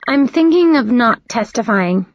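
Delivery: hesitant, slow, "thinking" leaned on; tentative. Acted. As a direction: float it as a timid maybe. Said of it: "that's better".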